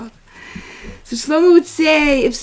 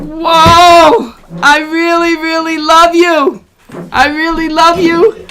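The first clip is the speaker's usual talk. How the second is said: retold loving reply; 2 semitones higher, 5 dB louder, slower than usual. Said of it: "And I said".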